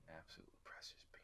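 soft breathy whisper of adoration. Real, not acted. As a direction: whisper it fondly to yourself. Fond aside after naming character.

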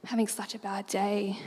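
understated fake misery; deadpan serious. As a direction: play it straight, pretending a bad day. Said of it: "in all serious, my dad goes".

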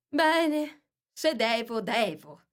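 high start sinking to a resigned sigh; a touch of melancholy king; gloomy king. Acted. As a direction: reluctantly give in, drooping at the end. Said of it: "con aria malinconica".

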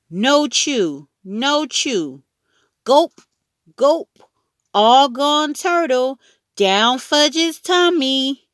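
put-on very high little-boy babble; babbling toddler. A narrator's reading. Toddler telling Mom he gulped the turtle, babbling. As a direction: chant it in high toddler talk, last words drawn out. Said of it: "Fudge babbled".

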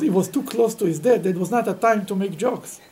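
usual speaking voice

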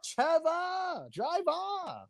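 high called-out Jamaican Trevor; Jamaican accent. Pretend. Calling Jamaican name comedically.

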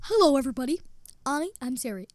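lightly voiced virtual assistant; Siri. Greeting everybody as Siri, light mimicry. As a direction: mimic an assistant in your own pitch. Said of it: "She talks like this".

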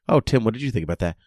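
a light put-on British accent, chatty recap host; lightly done British voice. Shown as a demonstration. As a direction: play a posh British podcast host. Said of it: "What would British Tim sound like?".

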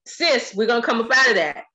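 chuckling through the words; laughing. Retold or imitated. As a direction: laugh while coaxing a friend. Voicing her sister's pep talk.

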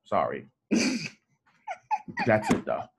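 giggly tipsy apology; tipsy giggle. Real, not acted. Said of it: "I'm a little tipsy".

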